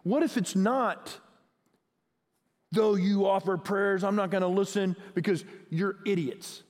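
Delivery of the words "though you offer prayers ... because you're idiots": contemptuous tone. Shown as a demonstration. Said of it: "type of tone".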